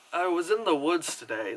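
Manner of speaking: Gretel's ordinary American voice, lightly imitated; mild American-accented girl-in-the-woods line; plain American accent. Reviewer imitates Gretel's American accent in a film, lightly voiced. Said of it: "Like, this voice".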